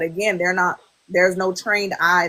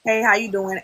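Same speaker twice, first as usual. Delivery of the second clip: flirty inflection.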